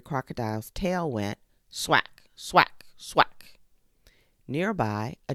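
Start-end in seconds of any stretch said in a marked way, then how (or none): 1.7-2.8 punchy, loud sound-effect word; loud, higher slap sound; loud swack. Acted. Crocodile tail sound effect. 3.0-3.6 breathy whispered sound-effect word; whispered swack. Acted. Crocodile tail sound effect.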